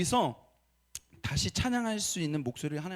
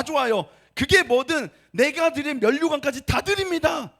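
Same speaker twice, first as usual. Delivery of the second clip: preaching at full force; 5 semitones higher, 6 dB louder than usual. Real, not acted. Pastor urging congregation to confess, full-force preaching. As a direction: press the confession onto the congregation. Sermon climax, loud slow.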